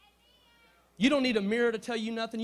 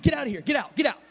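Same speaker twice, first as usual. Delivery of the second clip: mock stern order; 5 semitones higher, 7 dB louder, faster than usual. Mom ordering girl out.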